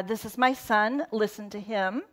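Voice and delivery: calm, kind announcement of a son; gentle fatherly voice. Retold or imitated. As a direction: say it like a loving father, not a boss. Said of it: "he isn't the kind of God who is like".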